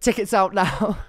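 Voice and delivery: loud, high promo announcer. Pretend. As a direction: sell it like a tour advert. Joke promo for paedophile tour.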